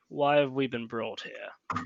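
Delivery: low, slow, softened character voice; telepathic character. Acted. Character questions the guy telepathically, low and slow. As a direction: ask it slowly and low, measured. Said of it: "speak to him telepathically and say".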